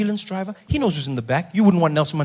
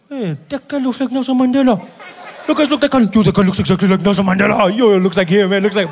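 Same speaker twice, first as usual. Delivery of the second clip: louder, eager look-at-that; excited spotting; 5 dB louder than usual. Acted. Driver shouting to friends about a lookalike, louder and excited. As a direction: point him out to friends with a loud buzz.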